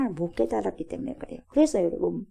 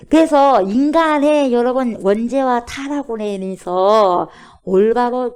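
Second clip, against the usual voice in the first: louder, slow, weighty preaching; emphatic preaching; 8 dB louder, slower than usual. Real, not acted. Preacher drives home original sin to the congregation, slow and loud. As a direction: hammer each word slowly to the pews.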